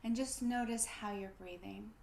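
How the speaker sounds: calm body-awareness guidance with pauses; guided breathing. Real, not acted. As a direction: guide them gently to notice the breath.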